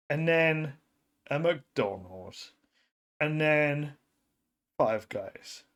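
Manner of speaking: measured storyteller delivery with dramatic pauses; storytelling. Acted. Storyteller telling how fast food spread through Belgium, measured storytelling. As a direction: spin a tale, pausing before each new turn. Tells an improvised tale.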